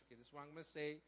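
low, very soft muttering to himself; rehearsing a speech. Acted. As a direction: mumble through a practised confession. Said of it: "He makes up this speech".

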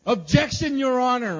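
high, loud, hammed-up lawyer's call; mock courtroom objection. Pastor acting out his dream courtroom moment, loud and mock-dramatic. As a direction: belt it out like a TV lawyer. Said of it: "I've always wanted to say".

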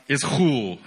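"ischul" said as ISH-hool, stress on the first syllable; Greek pronunciation. Shown as a demonstration. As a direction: say "ischul" with a breathy h in the middle. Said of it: "it's pronounced".

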